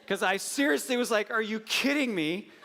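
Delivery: high, laughing "are you kidding me"; amused exasperation at the young doctor; laughing disbelief. Retold or imitated. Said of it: "I got old".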